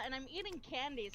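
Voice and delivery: ordinary talk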